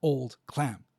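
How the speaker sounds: put-on "old clam" with both words stressed equally. Shown as a demonstration. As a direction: give "old" and "clam" the same weight. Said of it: "equally stressed there".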